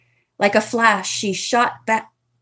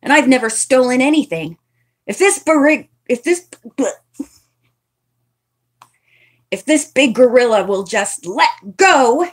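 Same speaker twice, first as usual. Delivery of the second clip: fast, raised angry retort; snapped; 3 semitones higher, 3 dB louder than usual. Acted. Mitzi snaps at Nancy while struggling, angry. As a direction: snap back at your accuser. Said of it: "Mitzi snapped".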